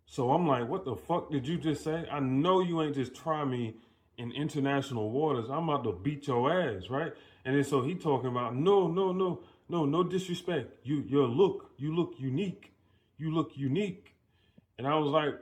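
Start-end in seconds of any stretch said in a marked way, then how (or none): 0.7-6.9 retold indignation, slightly raised pitch; mock-threatening retort; indignant comeback. Retells his indignant comeback to stranger. 8.5-14.1 imitating a stranger, high and hasty to placate; higher-pitched apologetic stranger; flustered backpedaling. Voices stranger backpedaling after offending him.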